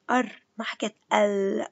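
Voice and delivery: أر said alone, held; stressed doubled r. Shown as a demonstration. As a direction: isolate the doubled r sound. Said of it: "اسمعوا شو حكيت".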